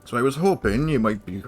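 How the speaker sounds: lightly voiced gruff old mentor, worried; gruff but caring, grumbling about Severin; older NPC voice. Old mentor asking the hero to find Severin, lightly gruff.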